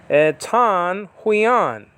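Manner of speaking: huion stretched very slowly; careful pronunciation. Shown as a demonstration. Teacher modelling the Greek huion for students. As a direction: say tan huion slowly, two syllables. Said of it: "huion is spelled out".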